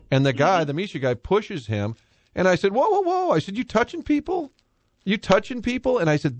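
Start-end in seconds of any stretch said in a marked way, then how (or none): 2.7-3.3 high, stretched alarmed whoas; pitched-up mock alarm; retold startled objection. Pushback at official shoving photographer. 3.6-6.0 retold indignant challenge. Confronting official who pushed photographer.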